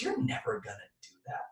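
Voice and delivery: a quick, hushed whisper of self-doubt. Retold or imitated. The inner critic talking to the dreamer, whispering doubt. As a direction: whisper it like the little voice in the back of your head. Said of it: "just whispering doubt".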